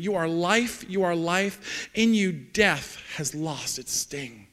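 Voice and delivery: slow, deliberate recital of worship lyrics; measured, heartfelt spoken lyrics; reverent lyric recitation. Acted. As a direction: let each short phrase land slowly.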